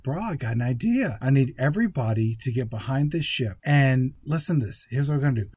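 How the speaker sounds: eager, muddled bro impression; Mark Wahlberg. Movie hero explaining his plan, eager bro impression. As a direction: pitch a bad plan as a confident bro. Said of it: "Mark Wahlberg explains it very quickly".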